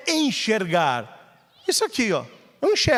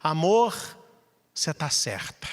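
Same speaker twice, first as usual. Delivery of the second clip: tender concession; 4 semitones lower, 4 dB quieter than usual. Retold or imitated. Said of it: "Você diz pra ela assim".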